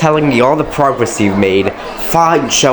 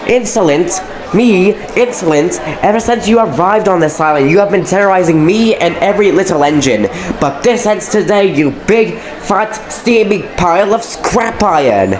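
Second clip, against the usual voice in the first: higher, heated counterattack; indignant outburst; 4 semitones higher than usual. Acted. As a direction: throw the word back at him, furious. Thomas fires back at Gordon.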